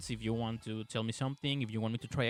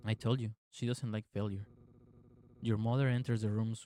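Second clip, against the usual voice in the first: even, measured game narration; story narration. A narrator's reading. Player reading the game's story to viewers, measured narration. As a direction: read the tale out evenly, restrained.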